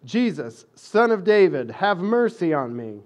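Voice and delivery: a beggar calling out loud for mercy; loud pleading cry for mercy. Retold or imitated. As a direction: call out to Jesus from the roadside, pleading. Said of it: "he began to cry out".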